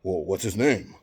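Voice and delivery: mock whisper at full volume; would-be confidential, fully voiced; failed whisper. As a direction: imitate a man who thinks he's whispering. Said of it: "thinking he's whispering".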